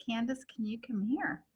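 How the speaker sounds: soft, breathless whisper; little voice. Retold or imitated. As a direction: whisper it timidly from the bathroom. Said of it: "in a really little voice".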